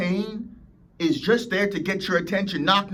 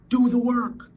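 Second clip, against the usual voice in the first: loud, high command; commanding shout; 7 semitones higher, 5 dB louder than usual. Real, not acted. Coach shouting at listeners to get to work. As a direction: bark the order at them.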